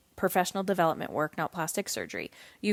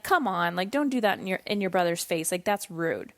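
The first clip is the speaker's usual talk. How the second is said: lower, mild parental correction; easygoing chiding; 4 semitones lower than usual. Retold or imitated. Mother lightly correcting her son for teasing his brother, easygoing chiding. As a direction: gently tell a child off, keeping it low and light. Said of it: "laughing with my kids and saying".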